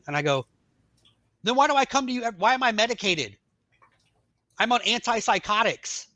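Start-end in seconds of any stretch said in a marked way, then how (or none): 1.4-6.1 high, exasperated challenge; raised pitch, louder stressed words, incredulous; indignant retelling. Retold or imitated. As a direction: demand answers, acting out the outrage. Indignant challenge to therapist, acted.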